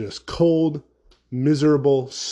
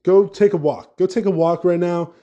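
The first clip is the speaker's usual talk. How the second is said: mock-furious rant at cold lovers; heated rant; 4 semitones higher than usual. Real, not acted. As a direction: tell them off, fed up.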